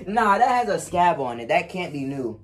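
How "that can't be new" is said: crying. Real, not acted. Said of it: "Oh, he crying for real".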